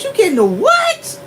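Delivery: high-pitched, disbelieving echo question; mock astonished double-check; retold incredulity. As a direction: pitch it up, baffled by the answer. Retold disbelief at aunt's answer.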